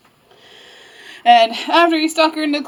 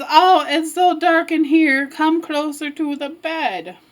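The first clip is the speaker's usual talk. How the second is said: slow, slightly raised granny voice; wolf posing as grandma; 4 semitones higher, slower than usual. Acted. Wolf luring Red closer to the bed, coaxing.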